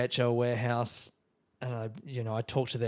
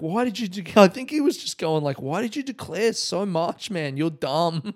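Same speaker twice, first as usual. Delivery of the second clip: higher mock scolding in broken English; imitating Greek agent; 6 semitones higher, 5 dB louder than usual. Agent calls the traveller dumb, higher put-on Greek accent. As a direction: tease him as a dumb tourist, Greek accent.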